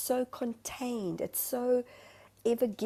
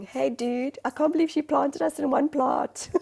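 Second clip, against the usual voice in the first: high, loud indignant plant voice; a plant griping to its pot-mate in an exaggerated accent; accented talking plant; 7 semitones higher, 9 dB louder than usual. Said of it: "I don't know why I get an accent".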